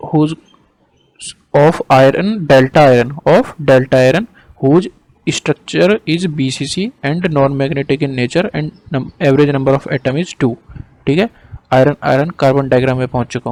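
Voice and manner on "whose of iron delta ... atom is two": slow, measured dictation; word by word, with pauses for writing. Real, not acted. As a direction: dictate slowly for note-taking. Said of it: "note कर लो जो मैं बोल रहा हूँ".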